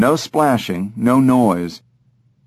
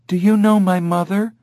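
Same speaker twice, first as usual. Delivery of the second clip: mimicking Jamie; 9 semitones higher than usual. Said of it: "sounding exactly like Jamie's voice".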